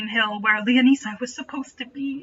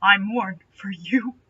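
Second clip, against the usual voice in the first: shaky voice; 3 semitones lower, slower than usual. Acted. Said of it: "he said with a shaky voice".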